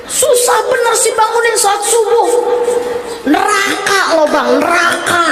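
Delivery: nagging wife. Retold or imitated. Wife nagging husband to get up for dawn prayer, exasperated. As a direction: scold him for not waking up.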